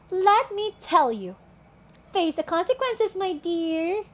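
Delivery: slow, patronising lecture; condescending. Acted. Telling storm victims to face the consequences, condescending. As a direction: spell it out slowly, talking down to them.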